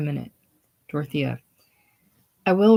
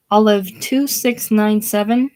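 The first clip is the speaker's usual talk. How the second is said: louder, higher voice with rising end; hurried phone answer; 5 semitones higher, 5 dB louder than usual. Acted. Bodhi rushing to the ringing phone, urgent raised voice. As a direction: call the number out high into the receiver. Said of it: "rushing to the phone".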